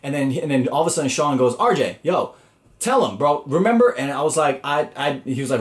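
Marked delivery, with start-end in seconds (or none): 1.6-3.9 urging, rising to a high, loud remember; eager plea. Retold or imitated. Sean begging RJ to back him up, pitched high and eager. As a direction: pull your friend into it, pleading.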